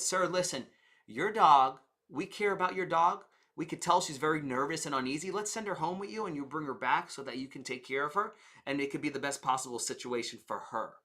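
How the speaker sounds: caring receptionist easing the owner's worry; caring frame. Retold or imitated. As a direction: soothe the worried owner gently. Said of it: "They could have said".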